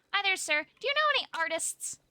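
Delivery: high sing-song politeness; overly polite greeting. Acted. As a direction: pitch way up to charm a stranger.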